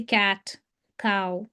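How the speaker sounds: cat and cow with an unaspirated Indian k; Indian-accent cat, cow, no puff on k. Shown as a demonstration. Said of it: "here in India, we are not".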